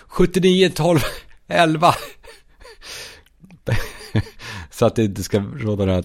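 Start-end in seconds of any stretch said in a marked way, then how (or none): 0.1-1.9 high-pitched called-out digits; raised, carrying shout; calling out. Acted. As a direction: call the numbers out across a street.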